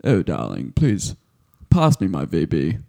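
a lightly posh, plummy lady. Acted. Mocking a posh rich kid, lightly posh. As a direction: toff ordering drinks, a hint of posh. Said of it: "you come from a posh background".

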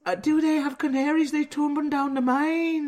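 put-on high-pitched Welsh accent sliding into Geordie; Welsh accent gone Geordie. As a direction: let a high mock Welsh drift into Geordie. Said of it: "That's Geordie now".

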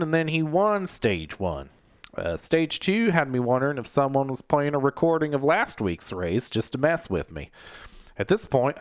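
lightly put-on folksy race recapper; a hint of a hammy TV personality; Michael Waltrip. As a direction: do a mild, silly recap impression. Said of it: "I do a stupid impression of Michael Waltrip".

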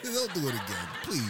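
laughing through the words. Real, not acted. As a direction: crack up while repeating it. Cracking up over story.

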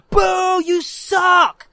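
high, loud booing; heckling. Retold or imitated. Kid to a girl's little sister, heckling loudly. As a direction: shout a jeer from the sidelines. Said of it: "But I'm heckling".

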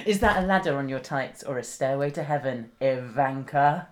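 mock chat-up line. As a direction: deliver the corny line in full, drawing out the name. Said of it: "my favourite pickup line".

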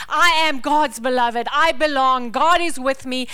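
loud declaration. Acted. Declaring scripture over life.

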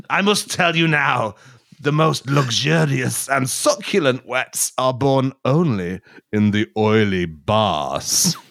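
lightly voiced parched man; grave mock-solemn warning, slowing; dry man voice. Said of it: "I'll be the dry man".

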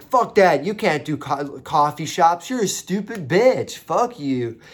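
mock tirade, punched out loud; ripping on her. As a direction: tear into her hypothetically, stretching the insult. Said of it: "if I was ripping on her".

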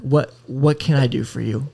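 retold question with strained restraint; composed after deep breath. Agent to difficult caller after a deep breath, composed. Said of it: "I took a deep breath".

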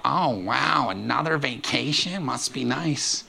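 mock jealous, slow and dry; sarcastic must be nice. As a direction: drag out the envy, grudging. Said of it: "you don't go".

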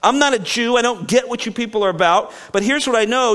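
mildly exasperated governor; impatient "Look"; unhappy Pilate. Retold or imitated. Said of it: "Pilate's not happy".

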